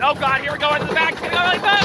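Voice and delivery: fast, nervous coaster excitement; on a roller coaster. Real, not acted. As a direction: brace for the drop, talking fast. Coaster starting the drop.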